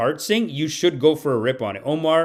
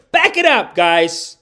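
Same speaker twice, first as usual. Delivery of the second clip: loud, raised warning yell; audio-peaking shout; 4 semitones higher, 6 dB louder, slower than usual. Pretend. Protester warning the government off, mock shout. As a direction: holler it to make them retreat. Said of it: "Let me know if that's peaking".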